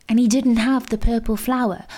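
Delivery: ordinary delivery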